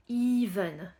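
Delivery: "Even" starting with a long EE. Shown as a demonstration. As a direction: say "Even" as eeven. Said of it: "ça se dit even".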